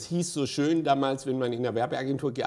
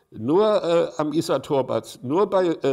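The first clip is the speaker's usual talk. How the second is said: lauter, höher gesprochener Radiospot-Ton; Werbe-Jingle; 2 semitones higher, 5 dB louder than usual. Retold or imitated. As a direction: verkauf es wie ein Radiosprecher im Werbeblock. (lauter Jingle-Sprecher im Radio)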